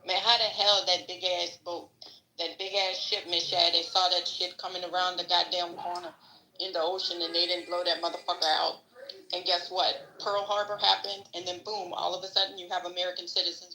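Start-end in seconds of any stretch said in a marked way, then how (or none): 0.1-8.8 lightly imitated Louisiana accent; a touch of old-time Louisiana speech. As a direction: quote grandfather with a hint of Louisiana. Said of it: "I have to say it in his Louisiana accent".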